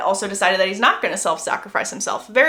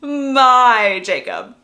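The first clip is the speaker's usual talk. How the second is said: MY held long and loud; drawn-out, swelling emphasis on MY; dramatic repeat; 9 dB louder, much slower than usual. Retold or imitated. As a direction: stretch MY out, louder and very slow. Repeats the sleep-talk with emphasis.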